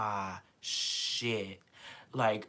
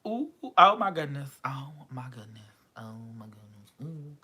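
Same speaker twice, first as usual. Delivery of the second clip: fading awestruck gasps. Real, not acted. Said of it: "overwhelmed fan".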